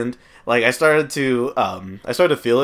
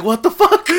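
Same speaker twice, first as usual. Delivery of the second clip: higher, louder laughing disbelief; mock shock; 10 semitones higher, 6 dB louder than usual. Stoned guy hearing the edible is stronger, in laughing mock shock. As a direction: blurt it out in stunned disbelief. Retelling his shock at strength.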